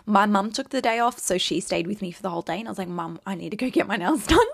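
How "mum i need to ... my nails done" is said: P=A; laughing at herself. Retold or imitated. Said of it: "Listen to twenty-one-year-old me".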